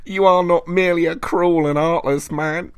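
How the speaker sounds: menacing voice. A narrator's reading. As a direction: sneer it out as a vengeful spirit. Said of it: "The voice paused".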